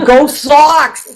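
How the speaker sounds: drawn-out Boston cheer, laughing; Boston fan cheer. Pretend. Host cheers Sox in Boston accent, slow and laughing. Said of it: "this is what it sound like".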